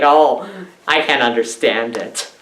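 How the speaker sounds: low, soft, hard-to-follow mumble; a hint of an actor you can't understand; lightly mumbled line from a B-movie actor; mumbling bad actor. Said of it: "you can't understand that voice".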